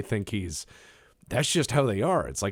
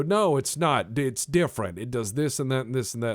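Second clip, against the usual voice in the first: raised, insistent imitation of a fan; mock defensive; 4 semitones higher, 4 dB louder than usual. Fan defending a new game to the speaker, mock defensive. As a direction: argue back, pitched up and pushy. Acting out defensive fans arguing.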